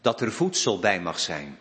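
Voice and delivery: measured prayer with deliberate pauses; congregational prayer. Real, not acted. Minister praying for congregation and church, solemn prayer. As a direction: pray aloud for the church, phrase by phrase.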